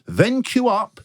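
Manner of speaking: comic outrage, pitch climbing on key phrases; worked-up, incredulous complaint; exasperated rant. Real, not acted. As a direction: rant in disbelief at a pointless system. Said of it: "the speaker's rant".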